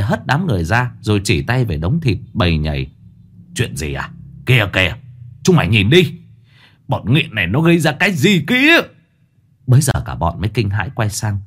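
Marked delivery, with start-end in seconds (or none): 3.5-8.8 angry outburst. Acted. Old man pointing at corpse.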